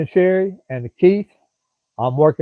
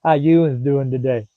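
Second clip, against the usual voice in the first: slow, drawn-out North Carolina mountain "youuns"; lightly done North Carolina mountain drawl; North Carolina mountain accent; slower than usual. Retold or imitated. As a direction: imitate a friendly North Carolina local greeting you, slowly. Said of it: "They say you'uns".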